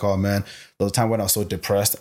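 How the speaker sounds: offhand, everyday mention; retold casual aside; casual admission. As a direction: drop it lightly into conversation.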